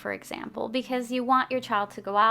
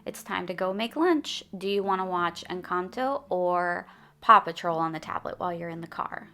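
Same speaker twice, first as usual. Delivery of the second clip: upbeat, fun; 3 dB louder than usual. Shown as a demonstration. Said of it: "put some emphasis on what's coming up next and making it sound fun".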